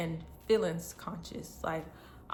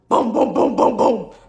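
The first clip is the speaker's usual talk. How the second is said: emphatic booms; 4 semitones higher, 15 dB louder than usual. Real, not acted. Emphatic sound effect in story.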